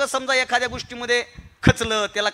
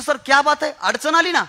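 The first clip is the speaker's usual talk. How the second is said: higher-pitched protest to a teacher; protesting student; 4 semitones higher than usual. Retold or imitated. Student answering his teacher about a setback, protesting. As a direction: push back in a raised, questioning voice. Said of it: "मी म्हणायचो".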